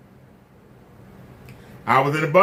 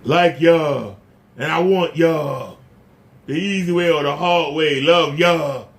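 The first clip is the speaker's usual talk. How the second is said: light mock impression, lower and drawn out; lightly exaggerated imitation, lower pitched; mimicking a copycat; 3 semitones lower, slower than usual. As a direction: mimic someone badly copying your way of talking. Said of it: "I don't talk like that".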